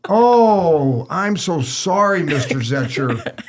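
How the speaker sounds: drip fake sorrow over the name; mock apology. Coach sneering at referee Zetcher, mock apologetic. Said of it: "He goes".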